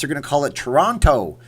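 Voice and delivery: Toronto with a clear T in the middle; crisp American T in Toronto. Shown as a demonstration. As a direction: say Toronto with the T fully sounded. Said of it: "if you're in the United States".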